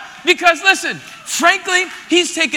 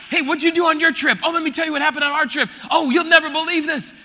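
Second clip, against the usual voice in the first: excited chatter; 4 semitones higher, faster than usual. Retold or imitated.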